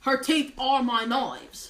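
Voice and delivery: broad, put-on Australian accent. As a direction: play a cheerful Aussie mate. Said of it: "I'll do my Australian accent".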